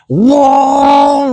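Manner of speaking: high, loud exultant whoa; relieved whoa. Retold or imitated. Kids after the car misses the wall, high exultant cheer. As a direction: cheer like you just cheated death.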